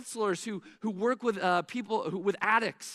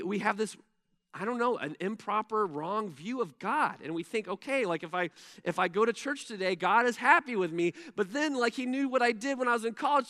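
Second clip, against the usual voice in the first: ordinary talk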